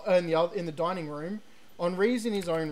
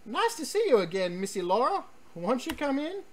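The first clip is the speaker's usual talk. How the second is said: hammed-up Southern accent; 5 semitones higher than usual. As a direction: lay on a thick Southern accent for the housekeeper. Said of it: "My horrible racist accent".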